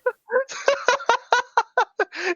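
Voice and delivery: high, breathy burst of laughter; big laugh. Real, not acted. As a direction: crack up and laugh hard.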